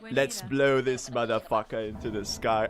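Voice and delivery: lightly hammed British-Aussie accent; half-managed attempt at a British-Aussie accent; bad Butcher accent. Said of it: "I can't do the accent".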